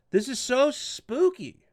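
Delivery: mock spooky. Mocking sinister photo framing.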